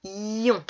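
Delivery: "ion" alone, long i into nasal on; drawn-out I. Shown as a demonstration. Teacher naming the sound heard in lion, i drawn out. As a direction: hold the i of "ion".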